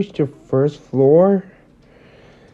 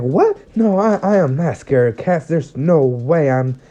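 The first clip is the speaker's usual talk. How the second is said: flustered denial; 2 semitones higher than usual. Acted. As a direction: deny it too quickly, caught out. Deku denying fear of cats.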